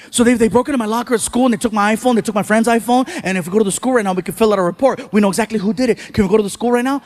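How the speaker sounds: put-on fast, breathless-kid run-on plea; urgent rambling. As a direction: blurt out the whole story quickly. Son blurting out the theft.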